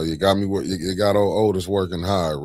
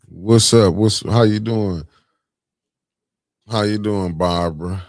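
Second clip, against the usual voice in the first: excited greeting; 4 semitones higher, 7 dB louder than usual. Real, not acted. Greeting viewers on his livestream.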